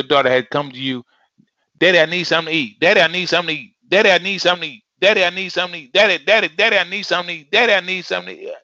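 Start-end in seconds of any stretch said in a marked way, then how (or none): 1.8-2.8 fast, higher pleading; nagging child. Retold or imitated. Child nagging father for food, fast and high. 2.8-8.5 put-on fast, pleading child voice repeating; child nagging daddy for food; begging child. Child pestering father, begging fast and higher.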